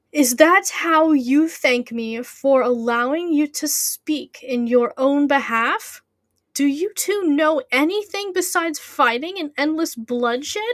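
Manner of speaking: slow, stern lecture with a theatrical lilt; lightly voiced scolding authority. Character rebuking the two for endless fighting, mildly acted scolding. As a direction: scold the pair in measured, emphatic swoops.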